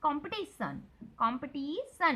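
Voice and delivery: कॉम्पिटिशन with a long, stressed ti; stretched ti. Shown as a demonstration. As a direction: pull out the ti in कॉम्पिटिशन. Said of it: "टी में stress देना है, टी को ऐसा खींचना है".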